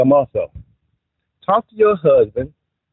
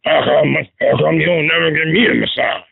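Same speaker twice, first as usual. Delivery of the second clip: sloppy wife voice. Retold or imitated. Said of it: "that's how they voice sound".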